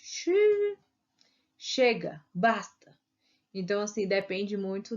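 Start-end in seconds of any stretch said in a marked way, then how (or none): 0.0-2.9 "xi" squeaked much higher; a high dismayed "xi"; mock disapproval; disapproving exclamation. Shown as a demonstration. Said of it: "repulsa, né? Ou desaprovação".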